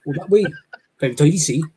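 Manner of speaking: put-on Welsh local giving directions; Welsh accent. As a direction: answer helpfully in a mock Welsh lilt. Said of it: "I hear someone going".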